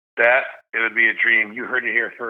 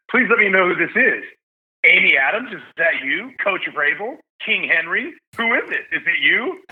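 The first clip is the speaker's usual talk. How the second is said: higher, playful mock questioning; joking; 6 semitones higher than usual. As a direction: rattle off joke guesses with lifted pitch. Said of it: "I like to joke".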